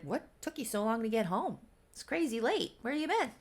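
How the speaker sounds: high, casual questioning; chillaxing. Retold or imitated. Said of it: "fully chillaxing and he's just like".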